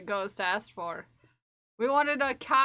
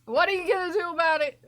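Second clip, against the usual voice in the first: mock tough guy; 7 semitones higher, 8 dB louder, faster than usual. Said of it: "I'm poking your chest with my finger".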